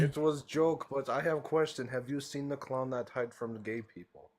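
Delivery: a lightly faked Russian accent with broken English; troll doing a thin put-on Russian accent; fake Russian accent. Troll in voice chat baits the streamer, lightly faked Russian accent. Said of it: "trying to put on a fake Russian accent".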